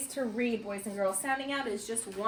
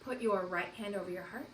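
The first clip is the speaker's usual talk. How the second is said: ordinary delivery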